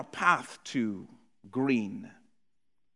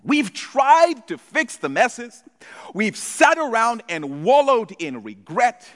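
loud, high preaching call; preaching at full force; 7 semitones higher, 5 dB louder than usual. Real, not acted. Preacher calling out to the church, loud and high. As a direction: lift the room with it.

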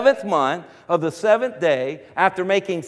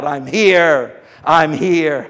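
lower, steady declaration; crying out; 5 semitones lower, much slower than usual. Retold or imitated. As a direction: say it low and sure. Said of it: "he just cries out".

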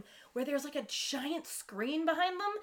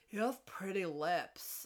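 slow, low, soft dopey line; mock dim-witted guy; 4 semitones lower, 7 dB quieter, slower than usual. Dumb boyfriend's first line, mock dim-witted. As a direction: say it slowly, lower, as a dim suitor.

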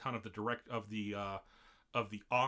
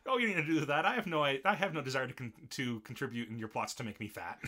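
mock protest; 3 semitones higher, 5 dB louder than usual. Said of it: "He was like".

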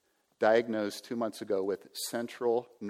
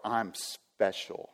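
slow mock boast; much slower than usual. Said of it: "that's what I'm called the".

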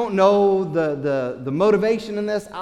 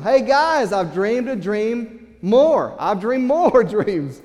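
excited younger brother; 3 semitones higher than usual. Acted. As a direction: savor every word of the news. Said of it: "So he says to them".

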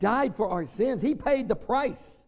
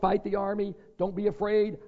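ordinary delivery

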